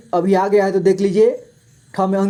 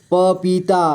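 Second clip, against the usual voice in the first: पपीता split into प, पी, ता; syllable by syllable; slower than usual. Shown as a demonstration. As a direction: draw out each syllable of पपीता. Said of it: "थोड़ा fast पढ़ेंगे". (पपीता को तोड़कर: प, पी, ता)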